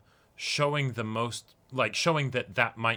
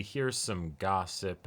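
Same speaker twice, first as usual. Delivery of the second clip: slow gossipy tease; 4 semitones lower, 3 dB quieter, much slower than usual. Retold or imitated. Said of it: "It has to also be".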